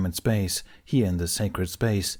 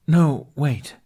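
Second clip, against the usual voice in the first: blurted; 6 semitones higher, 6 dB louder than usual. A narrator's reading. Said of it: "Ben blurted before he could catch his tongue".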